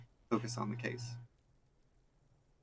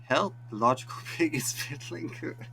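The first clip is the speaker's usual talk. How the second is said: mock yell; 6 semitones higher than usual. Kid screaming mock accusation.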